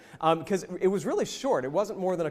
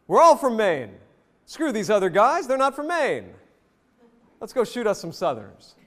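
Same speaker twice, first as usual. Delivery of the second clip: louder, higher call to fellow Maine men; rousing rally; 3 semitones higher, 3 dB louder than usual. Pretend. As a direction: stir up the troops with pride. Teacher voices audience's speech loudly.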